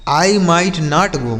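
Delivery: slow dictation. Shown as a demonstration. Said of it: "teacher slowly repeats the sentence".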